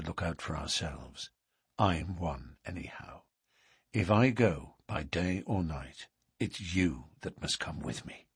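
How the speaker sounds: lightly voiced suitor, low and quiet; earnest suitor. Suitor asks his sweetheart to come away with him, hushed earnestness. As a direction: urge her softly, a touch of gravity.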